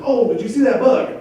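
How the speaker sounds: lightly voiced mom trying to distract the kids; embarrassed mother. Wife distracting the children from an obscene sight, mildly embarrassed. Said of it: "obviously embarrassed".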